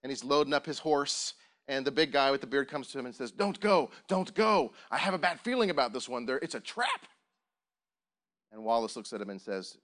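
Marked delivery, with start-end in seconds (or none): 3.3-7.1 higher, louder pleading at first, then easing; urgent warning. Acted. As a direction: act out an anxious warning to a friend. Acting film friend's urgent warning.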